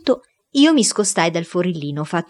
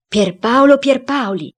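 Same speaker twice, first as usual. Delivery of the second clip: loud, high, drawn-out call to a spirit; exclaimed summons; 7 semitones higher, 5 dB louder than usual. A narrator's reading. Cook summoning the founder's spirit, exclaiming. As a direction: call the dead man's name out slowly. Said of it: "Il cuoco esclamò".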